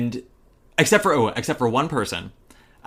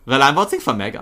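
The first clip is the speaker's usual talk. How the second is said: put-on German accent, "voting" as "vosing"; German accent catchphrase; 4 dB louder than usual. Repeating the party catchphrase, mock German accent. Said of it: "it became the new catchphrase".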